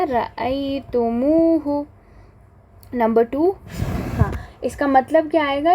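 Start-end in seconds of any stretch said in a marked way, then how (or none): 0.0-1.8 रअयतुमूहु drawn out slowly, each syllable clear; slow drilled answer. Shown as a demonstration. Teacher answering her own question, रअयतुमूहु slow and clear. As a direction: spell out रअयतुमूहु slowly for the class. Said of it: "क्या बन जाएगा?".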